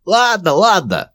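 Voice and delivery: very high, slow rasping goblin giving in; a cornered goblin rasping its surrender; hoarse goblin voice. A narrator's reading. Goblin with a sword at its throat, hoarse high voice. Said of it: "хрипло отозвался гоблин".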